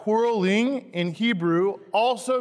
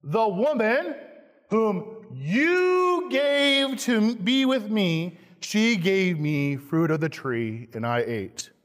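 Adam blaming; 2 semitones higher, slower than usual. Acted. Preacher voicing Adam blaming God, slow and whining. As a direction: point the finger as Adam. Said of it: "The man Adam said".

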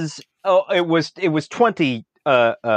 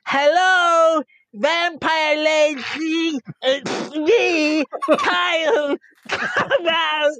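yelling; 5 semitones higher, slower than usual. Acted. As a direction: shout it out across the dam. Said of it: "and I will yell".

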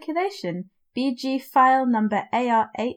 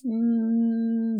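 drawn-out hesitation. Real, not acted. Drawn-out teasing refusal.

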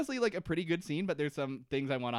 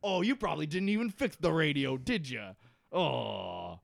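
mock Sawyer taunt; 4 semitones higher, 4 dB louder than usual. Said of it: "Sawyer's just like".

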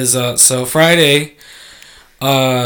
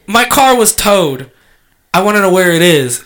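tag; 4 semitones higher, 4 dB louder than usual. Retold or imitated. Retold demand to towing company.

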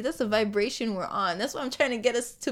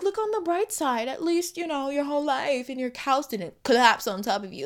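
high-pitched mock consolation, easing back down; sarcastic; 4 semitones higher than usual. Speaker parodying a stock saying about bad luck, sarcastic. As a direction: sarcastically chirp it as empty comfort. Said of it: "kinda sarcastic".

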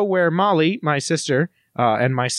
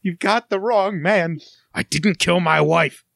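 hunted fugitive; 2 semitones higher, slower than usual. Pretend. Fugitive protesting innocence to his pursuer, melodramatic.

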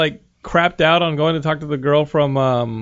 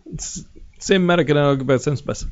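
put-on mangled Belgian-accented action star; garbled mock Belgian accent; Van Damme; slower than usual. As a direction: stumble through a thick comic Belgian accent. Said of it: "that was Van Damme".

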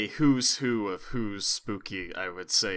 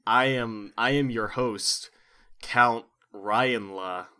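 horror host; slower than usual. Acted. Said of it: "I have to do a horror host bit".

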